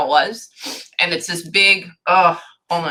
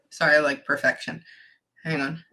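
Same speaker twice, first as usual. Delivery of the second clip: real whispered apology, softer; whispered aside; 5 semitones lower, 5 dB quieter than usual. Real, not acted. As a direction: whisper the apology under your breath. Aside apology while concentrating.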